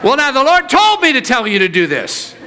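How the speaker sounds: mock prophecy. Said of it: "people prophesying over each other".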